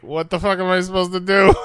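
high-pitched, flustered helpless question; mock panic. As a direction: imitate someone at a loss onstage. Retelling a panicked toy demonstrator.

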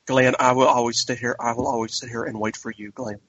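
mock Southern accent, trailing off softly; Lauren Cohan impression. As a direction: imitate an actress's fake Southern accent. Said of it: "Lauren Cohan doing a horrible".

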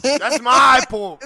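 laughing, slow and loud. Retold or imitated. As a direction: laugh through the catchphrase. Laughing echo of catchphrase.

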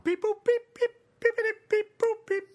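very high, loud droid beeping; R2-D2 beeps. Acted. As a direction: beep like a little robot. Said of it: "R two D two".

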